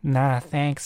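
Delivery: put-on Southern US twang; imitated Southern American accent. Shown as a demonstration. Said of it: "like, the Southern".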